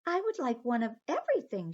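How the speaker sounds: high, sweet little mermaid; light, dainty sea creature voice. Acted. Aqua orders lunch.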